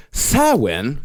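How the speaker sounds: "Samhain" said as SOW-win; "Samhain" the Gaelic way, sow-win; correct pronunciation. Shown as a demonstration. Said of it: "if you say Samhain instead of Samhain".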